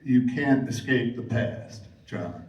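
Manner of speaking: measured, low-pitched warning; favorite game line. Acted. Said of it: "what is your favorite line".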